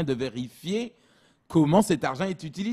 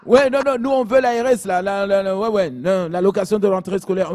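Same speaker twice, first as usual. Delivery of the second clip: laughing mock demand; 2 semitones higher, 4 dB louder than usual. Mother insisting, laughing.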